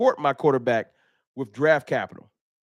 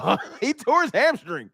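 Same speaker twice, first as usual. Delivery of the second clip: mock lament; 7 semitones higher than usual. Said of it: "You think I thought".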